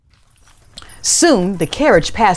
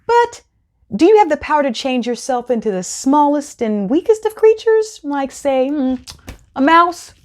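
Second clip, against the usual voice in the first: higher, coaxing cat voice; sly cat; 6 semitones higher than usual. Acted. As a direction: coax him sweetly. Puss flatters the sorcerer.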